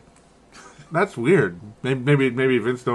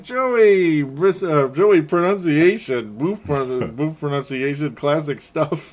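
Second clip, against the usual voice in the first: imitated teasing; 3 semitones higher, slower than usual. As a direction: playfully mimic friends making fun. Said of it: "They're making fun of me".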